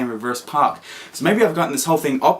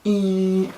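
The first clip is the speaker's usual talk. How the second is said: nervous high squeak; 6 semitones higher than usual. Retold or imitated. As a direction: squeak like you're bracing for a mistake. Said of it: "I'm like".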